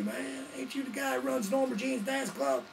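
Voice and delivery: high-pitched imitation of a redneck fan. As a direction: rednecks at the roadside, calling out to him in a high voice. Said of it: "They're like".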